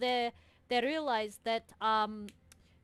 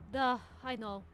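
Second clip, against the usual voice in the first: quiet confession; 2 semitones lower, 7 dB quieter than usual. Acted.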